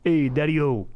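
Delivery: lightly voiced old-school husband; a hint of corny golf-course joker; old-school golf guy. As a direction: toss out wife jokes like a golf buddy. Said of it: "old school style guy wife jokes".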